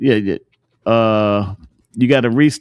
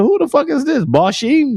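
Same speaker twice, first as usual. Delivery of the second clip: startled; 11 semitones higher than usual. Retold or imitated. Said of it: "I said".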